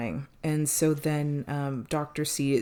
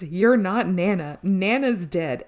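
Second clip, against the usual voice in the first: slow, louder and higher, a half-hearted try at Doctor C's defiance; defiant confrontation; 4 semitones higher, 6 dB louder, slower than usual. Retold or imitated. Podcaster retelling Doctor C telling the ghost Nana is dead, mock defiant and slow. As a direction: spell out each word like a hard accusation.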